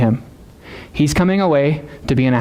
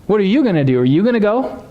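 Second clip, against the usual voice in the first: higher-pitched challenge to the listeners; pointed questioning; 5 semitones higher than usual. Retold or imitated. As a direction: put them on the spot, acting it out. Jesus challenging his disciples.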